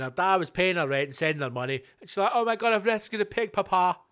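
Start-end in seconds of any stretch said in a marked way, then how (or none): 2.3-4.0 lightly voiced gushing daughter; a hint of an excited girl telling Papa; mildly higher, gushing to dad.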